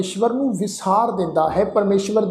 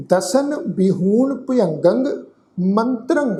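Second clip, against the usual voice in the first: slow, drawn-out chanting of the verse; slow scripture recitation; slower than usual. Shown as a demonstration. Teacher recites the verse for the congregation, slow chant. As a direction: intone each word slowly and reverently.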